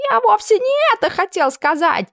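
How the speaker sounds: squeaky excuse. Acted. Camp cook excusing himself to the cook, squealing. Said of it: "попытался оправдаться кошевар".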